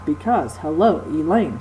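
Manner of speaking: because, hello, Elaine, each stressed on its second syllable; bouncy iambic rhythm. Shown as a demonstration. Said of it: "kind of a bouncy kind of sound".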